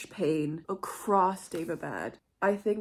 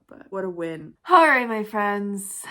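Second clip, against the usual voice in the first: ordinary talk, nothing marked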